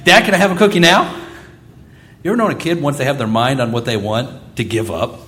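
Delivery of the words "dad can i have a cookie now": put-on impatient kid asking. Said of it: "she comes back".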